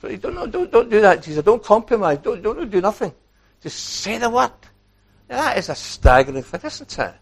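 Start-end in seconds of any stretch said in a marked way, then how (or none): 0.0-4.5 urgent plea. Acted. Centurion urging Jesus.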